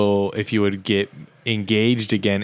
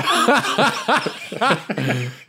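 laughter; 8 semitones higher than usual. Real, not acted.

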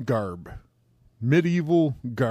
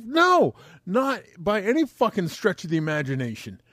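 retold scolding; 4 semitones higher than usual. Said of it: "retold scolding".

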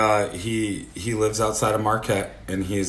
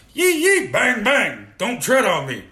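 high, loud redneck whooping; mock fake redneck; 12 semitones higher, 4 dB louder than usual. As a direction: holler like a caricature redneck. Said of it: "they're fake rednecks".

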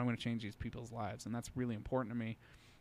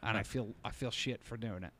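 put-on a light Australian accent, retelling Steve; imitating an Australian trucker, mildly. Trucker stuck on the sand road, in a mild Australian accent. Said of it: "I'll try to do his accent".

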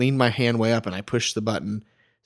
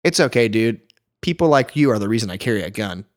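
dead serious. Retold or imitated. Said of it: "as serious as I can say".

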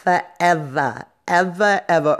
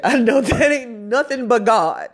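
laughing through it, higher; 7 semitones higher than usual. Real, not acted. Laughing as she credits God for her strength. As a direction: chuckle as you give God credit.

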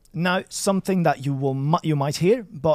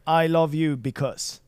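"I love you because." spoken slowly as a wrong example; wrong order example; slower than usual. Shown as a demonstration. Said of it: "it doesn't make sense to say".

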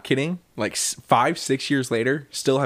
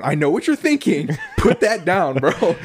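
mock pleading through laughter; retold plea, cracking up as you go; half-laughing plea to a friend; 4 semitones higher, 3 dB louder than usual. Retold plea, told while laughing.

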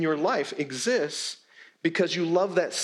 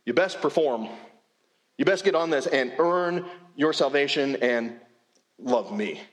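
mock demanding boss. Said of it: "it's not a matter of".

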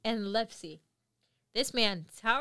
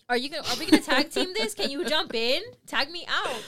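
urgent plea; 6 semitones higher, 6 dB louder than usual. Retold or imitated. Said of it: "I'm looking at Fidel like".

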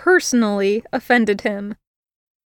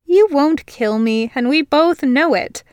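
smug; 4 semitones higher than usual. Acted. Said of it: "she said smugly".

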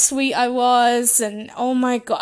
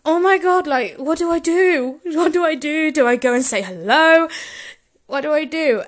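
higher, mildly panicked self-questioning; retold flustered panic; 4 semitones higher than usual. Fan deciding whether to greet wrestler, mild retold panic. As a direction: act out dithering over what to do. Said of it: "I started crying".

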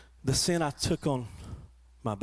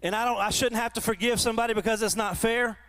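resentful voice; 7 semitones higher than usual. Retold or imitated. Voicing a resentful believer.

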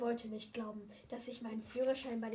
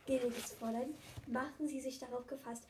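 put-on kids party magician; 2 semitones higher, 4 dB louder than usual. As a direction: announce it like a stage magician. Ron does nose trick.

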